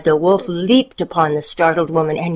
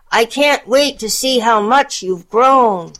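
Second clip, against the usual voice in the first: wolf as granny; 7 semitones higher, 3 dB louder than usual. A narrator's reading. Wolf pretends grandmother.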